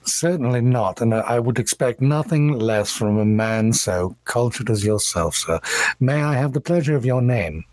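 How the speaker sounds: lightly voiced cultured attorney; a touch of refined, courteous speech; cultured elven gentleman. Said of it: "in very cultured common says".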